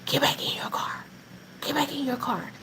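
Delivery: low, hushed warning from the cop; cop's low command. Retold or imitated. Cop warns narrator and grandma, quietly. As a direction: quietly order them back in the car. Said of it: "not really yells, but he says".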